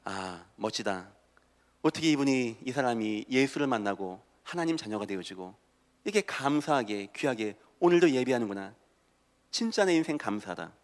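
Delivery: soft, low wonder; grateful self-talk. Acted. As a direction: marvel quietly at your own blessed life. Acts grateful self-talk at a mirror. (나직이 감사하며 감탄하듯)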